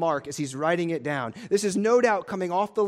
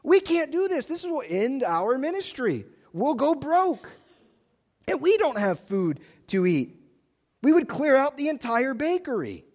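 frantic disciples; 6 semitones higher than usual. Retold or imitated. Philip panicking about feeding the crowd, frantic. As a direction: fret over the cost. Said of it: "they're in this frantic mode".

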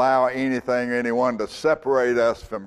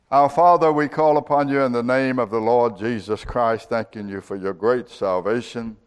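prayer; 2 semitones lower than usual. Real, not acted. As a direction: address God reverently on a steady, level tone. Leads a closing prayer.

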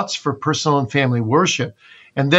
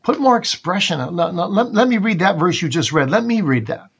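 higher-pitched, eager coaching voice; father coaching reader; 5 semitones higher than usual. Acted. Father to child after a toneless reading, coaching. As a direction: step in to show a child how.

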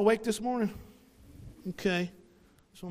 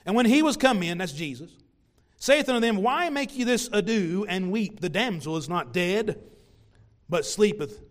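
scripture reading. Acted. Pastor reading the verse to the congregation. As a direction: read out the verse, raised.

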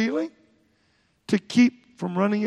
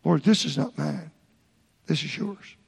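humble prayer; 5 semitones lower than usual. Shown as a demonstration. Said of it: "Like this".

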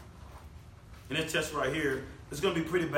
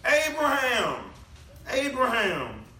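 higher-pitched imitation of God calling; emphatic calling out; 4 semitones higher, slower than usual. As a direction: call the name out emphatically, as God would. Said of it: "he yells it out".

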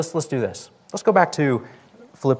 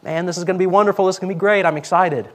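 higher, eager rush; excited; 7 semitones higher, faster than usual. Acted. Voicing churchgoers looking forward to the new year, excited. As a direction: gush with excitement, pitch lifted. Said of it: "the new year is exciting".

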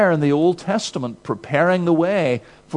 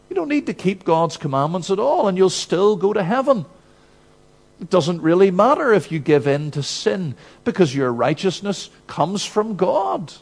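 a lightly voiced tempter, pitched higher, coaxing; devil's sales pitch; 4 semitones higher than usual. Preacher voicing the devil tempting churchgoers, in a coaxing higher voice. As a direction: sell sin sweetly like the devil, voice up. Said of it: "he'll say something like this".

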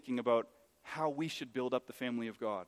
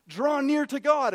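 high, drawn-out pulpit shout; slow, ringing command at full voice; loud exhortation; 11 semitones higher, 9 dB louder, slower than usual. Acted. Writer pointing at the cross calls believers near, exhorting.

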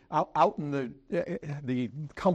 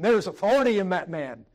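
awed inner thought; 5 semitones higher, 6 dB louder than usual. Retold or imitated. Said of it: "You're thinking".

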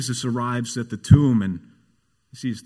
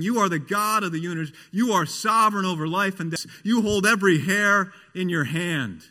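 higher, quickened worship declarations; raised voice imitating Sunday worshippers; imitated praise; 5 semitones higher than usual. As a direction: rattle off confident praise.

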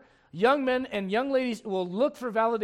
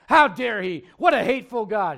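mock outrage; 6 dB louder than usual. Mocking the offended world.

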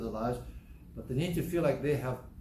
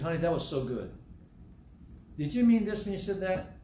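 sweet wife imitation; 4 semitones higher than usual. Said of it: "But if she says".

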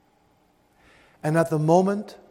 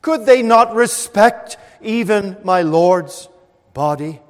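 outraged question; 3 semitones higher, 7 dB louder than usual. Acted. Mary asking who stole the body, loud and indignant. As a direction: demand it in grieving disbelief.

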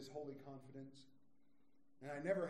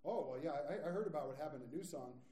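a mild mocking gasp, then a louder good luck; mock pity; 8 dB louder than usual. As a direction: pity the new pastor with a sneer. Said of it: "they'd be like".

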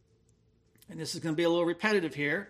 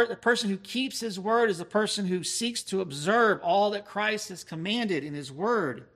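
ordinary talk, nothing marked

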